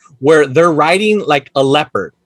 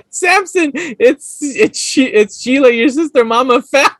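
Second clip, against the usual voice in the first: film caller imitation; 6 semitones higher, slower than usual. Acting out the film's phone call.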